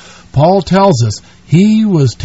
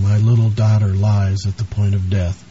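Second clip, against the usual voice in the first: softer, lower, begging tone; quiet earnest plea; 6 semitones lower, 6 dB quieter than usual. Retold or imitated. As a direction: beg for the dying daughter softly. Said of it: "begged him earnestly, saying".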